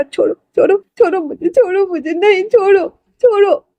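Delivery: high, rising frantic cries of let go; panicked struggling. Acted. Struggling while held down. (पकड़े जाने पर घबराकर चीखना "छोड़ो")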